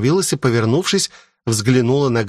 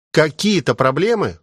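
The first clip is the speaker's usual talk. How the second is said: usual speaking voice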